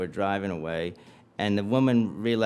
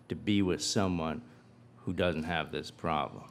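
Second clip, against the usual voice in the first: hushed sincerity, one phrase at a time; solemn earnest promise; 4 semitones lower, 5 dB quieter than usual. Acted. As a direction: deliver a measured, heartfelt vow. Acted wife's solemn promise to husband.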